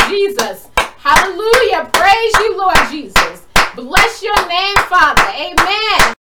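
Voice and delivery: loud, high, fervent calls to the Lord; fervent loud prayer. Real, not acted. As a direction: pray out hard, calling on God. Prayer led at full force.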